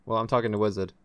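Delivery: glitchy robot voice over the internet; choppy robotic connection voice. Real, not acted. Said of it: "You sound like a robot".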